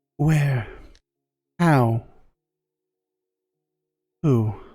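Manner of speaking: female voice crying out, calling. Voicing a woman's voice calling out to a player: woman's voice calling out. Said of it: "You hear a woman's voice call out to you".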